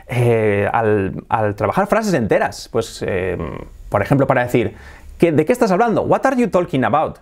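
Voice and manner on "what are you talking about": higher, word-by-word Spanish-accented English; "talking" as "TOL-kin", Spanish vowels; learner's Spanish accent. Shown as a demonstration. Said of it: "yo antes pronunciaba así".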